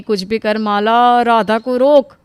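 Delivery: slow, loud plea to herself; घबराई हुई. Acted. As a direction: urge yourself on in a panic. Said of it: "सुनकर वो बहुत घबरा जाती है". (घबराकर खुद से ज़ोरदार गुहार)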